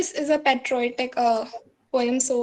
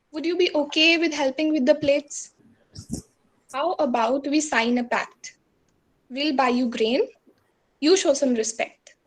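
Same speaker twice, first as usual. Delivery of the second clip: poetry recitation; 2 semitones higher than usual. Acted. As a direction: recite it as a challenge, line by deliberate line. Recites own protest poem.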